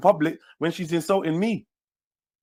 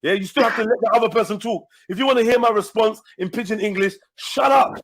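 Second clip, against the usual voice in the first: higher, heated telling off; raised, heated voice; angry, higher pitched scolding; 4 semitones higher than usual. Real, not acted. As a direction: demand he shuts up. Angry at uncle interrupting.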